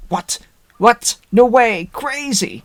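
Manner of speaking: imitating a gasp of disbelief, rising high; replaying a giddy shocked reaction, half joking; mock amazement. Host recalling seeing the trailer, mock amazed. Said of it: "I'm like".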